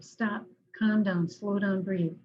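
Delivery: slow, deliberate, steady self-command; calm self-talk. Shown as a demonstration. Therapist showing clients the calming words, slow and steady. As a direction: say it firmly and slowly, like coaching yourself. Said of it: "actively tell yourself".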